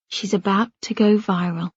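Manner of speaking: solemn. Acted. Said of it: "Elliot says solemnly".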